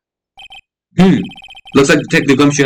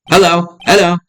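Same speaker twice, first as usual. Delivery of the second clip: parrot squawk; 5 semitones higher than usual. Acted. Voicing the parrot Polly.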